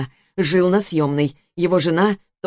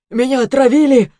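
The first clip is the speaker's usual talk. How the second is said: accusing shout; 6 semitones higher, 6 dB louder than usual. Acted. Poisoned man accusing women.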